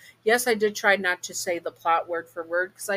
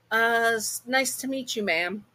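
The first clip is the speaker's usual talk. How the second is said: awkward; 6 semitones higher than usual. Acted. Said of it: "feeling a bit awkward".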